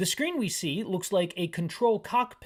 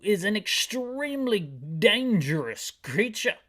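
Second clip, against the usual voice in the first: chief voice; 3 semitones higher, 4 dB louder than usual. Acted. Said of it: "That's a terrible voice for the chief".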